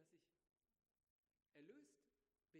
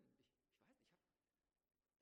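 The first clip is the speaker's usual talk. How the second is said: awed hush; 4 semitones lower, 13 dB quieter, much slower than usual. Retold or imitated. Disciples imagine healing power, awestruck.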